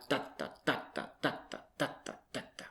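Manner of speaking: "da" in choppy strong-weak alternation; stereotyped German rhythm. Shown as a demonstration. Teacher imitating German stress stereotypically, choppy alternating beats. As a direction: hammer out "DA da, DA da" like a staccato beat. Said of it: "switch between strongly stressed syllables and unstressed".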